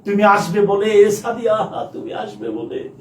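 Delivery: lovelorn verse with breathy sighs between stanzas; dramatic poem recitation. Pretend. Teacher recites a love poem to Sadia on request, theatrical declamation.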